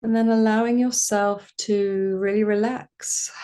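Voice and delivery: calm, spacious meditation voice; guided meditation. Acted. Meditation teacher inviting listeners to relax, calm voice. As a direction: reassure and leave room between phrases.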